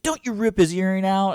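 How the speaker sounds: imitating mom yelling at brother. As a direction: scold like mom, high and sharp. Mom voiced in story.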